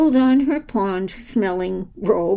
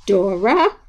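louder, carrying call; booming; 5 dB louder than usual. Acted. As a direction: boom her name across the room. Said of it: "voice boomed across the room".

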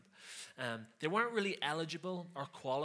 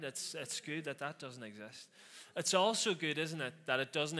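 sarcastic; 4 dB louder than usual. Pretend. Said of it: "I'm being completely sarcastic".

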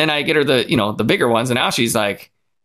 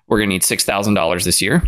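low, deadpan budget request; straight-faced; 6 semitones lower, faster than usual. Retold or imitated. Scoutmaster asking the church for budget money, straight-faced. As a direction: state it with a totally straight face. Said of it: "Straight face. He's like".

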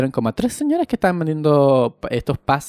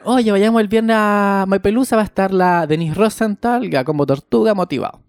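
excited invite; 5 semitones higher than usual. Retold or imitated. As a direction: sell the plan with excitement. Inviting friend to the fonda.

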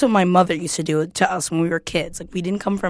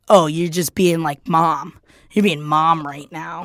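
mocking brother; slower than usual. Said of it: "then he's like".

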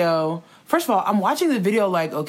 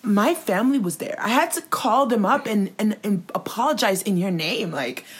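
mock upset Tati; 4 semitones higher than usual. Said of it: "She's like".

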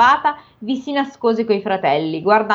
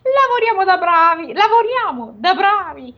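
high, gloating ogre; 10 semitones higher than usual. Acted. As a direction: relish the task as the ogre. Ogre speaks in story.

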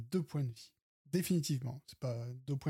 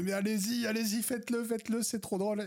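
eager, raised voice egging them on; excited urging; 7 semitones higher than usual. Retold or imitated. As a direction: cheer them on to do it. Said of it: "j'étais là".

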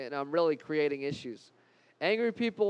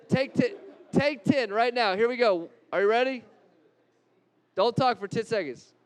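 excited urging; 3 semitones higher, 3 dB louder than usual. Real, not acted. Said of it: "urging the crowd".

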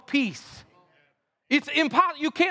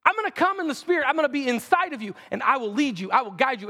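God's voice. Retold or imitated. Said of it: "He's like".

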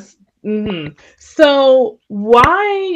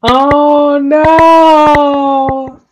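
mock dismay; 4 semitones higher, 4 dB louder than usual. Real, not acted. Co-host reacting to the pet voice.

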